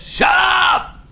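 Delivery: high-pitched shouted retort; mock shout. Sick grandmother cutting off the singer, mock shout. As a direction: yell it as a cranky patient.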